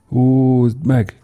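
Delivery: high shouted heave call; sailors' shout. Acted. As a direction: call out the pull like a deck hand. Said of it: "kiáltották".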